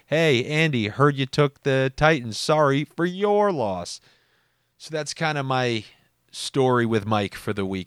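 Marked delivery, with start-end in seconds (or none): 0.1-4.0 teasing text read out, ending higher and slower; mock condolence. Listener texting host about lost bet, mock condolence. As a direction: draw out "your" in mock sympathy. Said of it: "maybe you'll text me".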